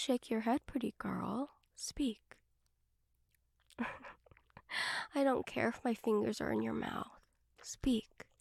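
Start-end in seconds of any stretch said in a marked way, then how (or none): 1.8-8.3 whispered command. Acted.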